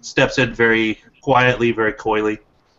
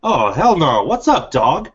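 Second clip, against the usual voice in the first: lightly voiced old-timer trying out slang; a stiff man trying to sound hip; awkward slang; 4 semitones higher than usual. Joshua tries modern slang on Javier, a little awkwardly. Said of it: "trying a little bit more of his modern vernacular".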